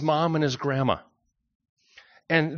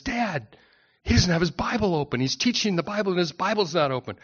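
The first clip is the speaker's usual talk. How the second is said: a hint of a child protesting to Dad; young boy; 3 semitones higher than usual. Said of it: "one of the young boys".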